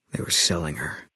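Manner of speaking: hushed whisper, pitch dropped low. Acted. Sniper confessing his wife's fate to the courier, whisper. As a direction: barely breathe the words out in pain. Telling how his wife died.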